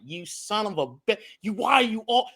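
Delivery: high-pitched mock outburst at the screen; mock angry yell. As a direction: yell it at the TV, half in jest. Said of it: "yell at the screen".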